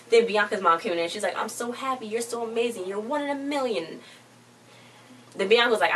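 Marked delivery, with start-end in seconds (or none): 1.3-4.0 high, gushing proud-mom voice, softer. Retold or imitated. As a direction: pour on the motherly praise, pitched up. Mom gushing over her daughter.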